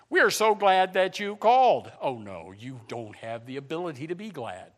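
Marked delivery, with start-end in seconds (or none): 0.1-1.9 automated voice. Retold or imitated. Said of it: "automated, uh, voice on there".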